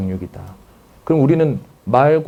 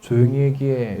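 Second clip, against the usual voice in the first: put-on low, subdued hush to a child; mismatched low reply; 2 semitones lower than usual. Mom answers an excited child, low and subdued. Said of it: "음조는 높고 낮음을 보는 건데".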